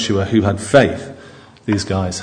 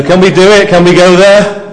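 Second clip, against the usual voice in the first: high, loud cheery cry; eager Bob the Builder; 7 semitones higher, 7 dB louder than usual. Retold or imitated. Caleb rallying the people, bright loud cheer. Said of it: "Or, you know".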